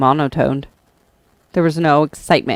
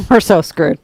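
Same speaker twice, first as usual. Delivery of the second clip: laughing through a mock lament; high, laughing plea for the kitten video; laughing mock gloom; laughing despair; 8 semitones higher, 5 dB louder than usual. Real, not acted.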